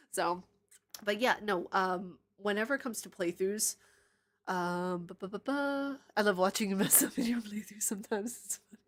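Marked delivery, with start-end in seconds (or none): 5.1-6.0 higher "ba, ba, ba, ba"; idle higher-pitched filler noise; sing-song filler syllables. Real, not acted. Streamer scanning the chat for comments, idly vocalizing.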